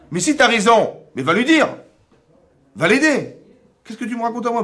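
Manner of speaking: loud laughing retort to the gossiper. Retold or imitated. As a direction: fire it back with a laugh, push it up high.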